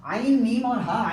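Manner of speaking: slow letter-by-letter spelling of عین میم اور ہا. Shown as a demonstration. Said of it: "دونوں لفظ دیکھیں".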